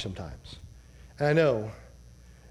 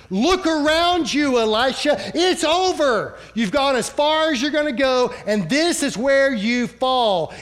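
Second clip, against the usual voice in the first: exasperated panicked shout; 8 semitones higher, 5 dB louder than usual. Retold or imitated. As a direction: shriek it like a terrified servant who thinks it's over. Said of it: "the servant said".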